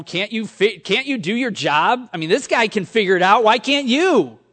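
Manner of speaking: a touch of exasperated, rising complaint; mock impatient scolding. Pastor voices the rude customer he chose not to be, mild mock exasperation. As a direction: play the rude customer, half in jest. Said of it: "didn't yell at her".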